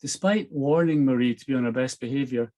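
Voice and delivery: steady storyteller reading a novel aloud; story narration. A narrator's reading. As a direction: read the chapter like an audiobook. Reads novel chapter aloud.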